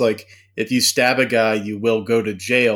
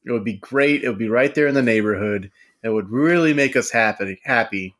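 talking with ice in the mouth; speaking around an ice cube. Real, not acted. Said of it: "I've got a piece of ice in my mouth now".

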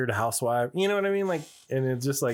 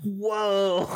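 drawn-out, higher-pitched retold whoa; amazed whoa; 7 semitones higher than usual. Telling partner about the fanny pack fight, amazed. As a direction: replay an awestruck reaction. Retelling his reaction to fight scene.

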